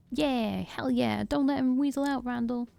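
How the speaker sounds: a punk hollering support from the crowd; rowdy gang cheer. Acted.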